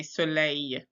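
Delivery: soleil ending in a "yeh" glide, no final L; French pronunciation. Shown as a demonstration. Teacher showing pupils, soleil with silent final L. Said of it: "we don't say that L".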